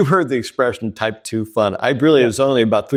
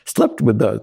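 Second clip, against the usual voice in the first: put-on playful Irish-accented self-narration; forgiving Irish voice; 2 semitones higher than usual. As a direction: gently chide in an Irish accent. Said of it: "the voice was, was kind of fun and very forgiving".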